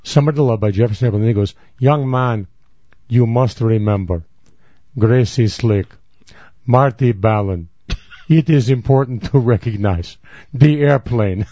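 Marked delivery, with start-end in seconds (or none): 1.8-4.2 put-on Jewish accent. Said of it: "a bohemian trying to do a Jewish accent". 5.0-5.9 whisper. Retold or imitated. Rabbi voice, whispered name. 6.6-11.5 put-on Jewish accent. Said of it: "a bohemian trying to do a Jewish accent".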